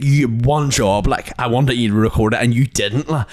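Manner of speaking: mock sassy teen scolding mum. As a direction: lay on the sass, word by word. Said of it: "Pierre got the sass out".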